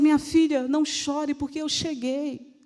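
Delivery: gently voiced Jesus consoling; compassionate. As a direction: comfort a grieving daughter. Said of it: "foi um não chore de compaixão".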